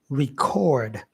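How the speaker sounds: record with the stress on -cord, reCORD; reCORD, the verb. Shown as a demonstration. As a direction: say record as a verb, second syllable strong. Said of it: "the second syllable is stressed".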